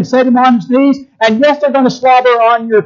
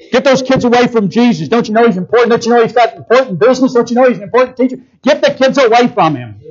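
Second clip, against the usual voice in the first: mock fussy disciples; faster than usual. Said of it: "Can you see these careful men?".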